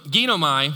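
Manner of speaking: "Ginomai" called out clearly, hard g, stress on the first syllable; "Ginomai" as GHEE-no-my. Shown as a demonstration. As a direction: say "Ginomai" loud for the crowd to repeat. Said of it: "Everybody say ginomai".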